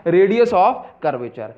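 "Radius of curvature" drawn out very slowly with a falling end; slow answer. Shown as a demonstration. Teacher repeating the key term to students, very slow. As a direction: give the term slowly so it sinks in. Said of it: "क्या बोलूँगा".

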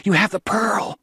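high, urgent hoarse cry; cried hoarsely. A narrator's reading. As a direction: Juana crying out hoarsely to her husband. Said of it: "she cried hoarsely".

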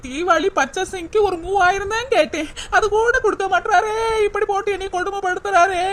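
mock sobbing lament broken by laughter; half-laughing put-on wail; fake crying. Wife fakes tears over Diwali money, hammed-up sob. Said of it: "ஒரு அழுகைய போடு".

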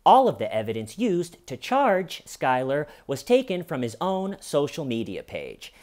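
a light take on a local news anchor. Retold or imitated. Mimicking the local news snippets YouTube recommends, lightly anchor-like. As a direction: read it like a light mock news report. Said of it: "they all sound something like this".

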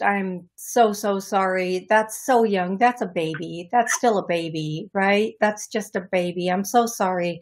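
low, gentle condolence; real tender sympathy; sympathetic. Real, not acted. Consoles a bereaved mother.

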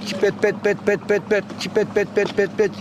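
long run of evenly driven pet notes; flavourful bird call. Shown as a demonstration. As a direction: imitate a finch savouring repeated notes. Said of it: "lezzetli çipet pet değil". (lezzetli, uzun çipet pet taklidi)

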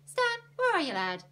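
loud, high call for a lad; summoning shout, falling at the end. A narrator's reading. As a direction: holler through the house for someone. Ernie calls out for Stan.

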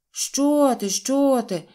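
high, loud hasty protest; flustered denial. A narrator's reading. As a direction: fend off the accusation. Hastily denies accusation, waving hands.

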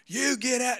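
put-on angry country-accent pastor, high and loud. Pastor catching kids at the porta potty, angry country accent. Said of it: "he just country accent".

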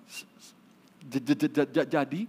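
imitated stutter throughout the tale; gagap. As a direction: stammer through the story, repeating first sounds. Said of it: "orang gagap ini bilang". (menirukan orang gagap bercerita)

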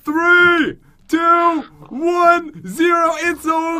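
loud, high, triumphant countdown; shouted countdown. Real, not acted. Hider winning as time runs out, shouted countdown. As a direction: call out the final seconds at full voice.

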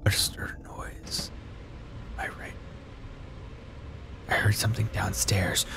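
hushed, frightened whisper; scared whisper. Real, not acted. Player hiding from the intruder, scared whisper. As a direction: whisper so the intruder can't hear.

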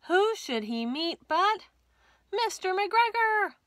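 dramatic reveal. A narrator's reading. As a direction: draw it out like a big surprise.

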